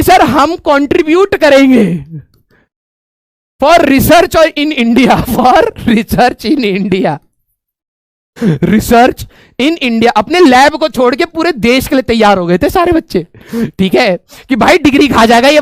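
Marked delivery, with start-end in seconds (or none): 0.0-10.1 pleading students. Retold or imitated.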